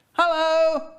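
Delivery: very high, sing-out hello; manic greeting. A narrator's reading. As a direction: trill it out to the guard. Miss Goodall greets the guard.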